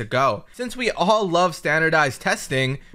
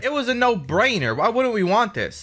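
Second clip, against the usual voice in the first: steady even recap narration voice; story recap narration. A narrator's reading. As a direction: narrate the episode recap calmly. Recap narration over footage.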